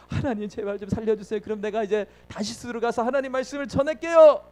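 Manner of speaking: mock plea to be spared; pleading prayer. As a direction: beg God for rescue, rising towards the end. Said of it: "하나님께 기도해서 살려줬다니까요".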